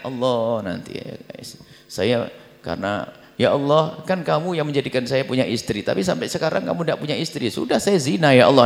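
protesting prayer. Retold or imitated. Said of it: "Jadi ini protes sama Allah".

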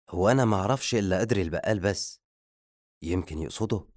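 rapid-fire answer; quick reply. A narrator's reading. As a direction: answer straight back, fast. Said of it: "رد المساعد بسرعة". (رد سريع)

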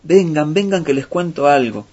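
bursting in to gather everyone round; calling out excitedly. Acted. Fox rushing into the village, excited call. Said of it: "entró gritando".

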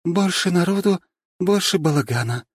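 weary sarcastic echo; sighing. A narrator's reading. Lera mocking Nastya's cheer, weary sighing echo. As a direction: repeat it with a tired sigh. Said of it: "вздохнула Лера".

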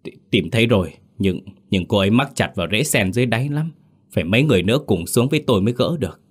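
fast, breathless and stammering after the dive; breathless hurried report; out of breath. Acted. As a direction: gasp the words out, winded from swimming. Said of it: "Anh hụt hơi nói".

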